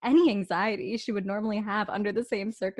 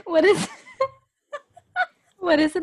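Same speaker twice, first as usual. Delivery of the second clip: eager; 9 semitones higher, 5 dB louder than usual. Acted. Eager lover voice.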